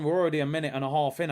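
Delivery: ordinary talk, nothing marked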